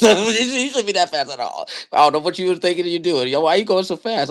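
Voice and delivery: high laughing coach quote. Real, not acted. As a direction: squeak it out through laughter.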